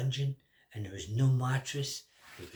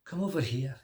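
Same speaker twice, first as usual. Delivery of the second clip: shout; 2 semitones higher, 5 dB louder than usual. Acted. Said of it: "he shouts".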